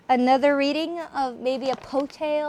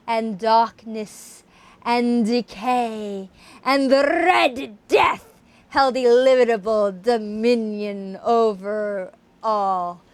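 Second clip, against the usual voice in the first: savoring the last line; 2 semitones lower than usual. Shown as a demonstration. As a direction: relish every word of the ending. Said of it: "Oh, that last line".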